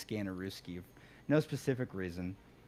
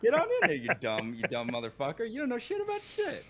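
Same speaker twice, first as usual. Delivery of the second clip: laughing, hammed-up insults leaping high; playful mock berating; mock negging; 5 semitones higher, 5 dB louder than usual. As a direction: imitate a barker abusing the customer. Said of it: "threw in a little Marvel negging".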